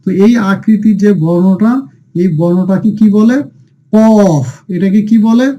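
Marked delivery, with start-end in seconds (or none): 3.9-4.5 কফ with a full, heavy opening consonant; heavy letter name. Shown as a demonstration. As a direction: say কফ long and heavy, falling at the end. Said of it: "একটু উঁচু মোটা করে পড়তে হবে".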